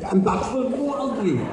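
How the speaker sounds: imitating slurred speech through ill-fitting teeth; mock unintelligible talk round plastic teeth; garbled by fake teeth. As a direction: mumble it as if your mouth is full of false teeth. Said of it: "I couldn't understand a word I was saying".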